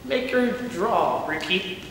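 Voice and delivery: smirking. Acted. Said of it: "Chris smirked".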